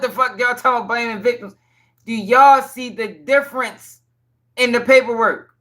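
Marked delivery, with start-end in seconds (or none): 2.0-5.5 pointed question to chat. Real, not acted. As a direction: spell it out for them. Pressing chat slowly.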